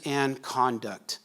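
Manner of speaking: "and conduct" said slowly, each word set apart; stress on conduct. Real, not acted. Preacher defining express for the congregation, stress on "conduct". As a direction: lean slowly and deliberately on "conduct". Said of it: "put the emphasis on the word conduct".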